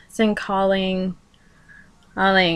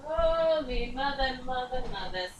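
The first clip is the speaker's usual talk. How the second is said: muttering; 5 semitones higher, 13 dB quieter than usual. Real, not acted. Muttering aside while searching.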